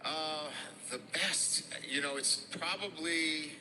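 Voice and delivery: a hint of a Southern accent. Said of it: "In your best Southern accent".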